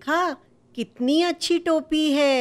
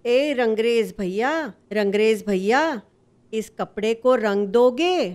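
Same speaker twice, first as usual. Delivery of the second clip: sweetly asking. Acted. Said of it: "प्यार से बोला".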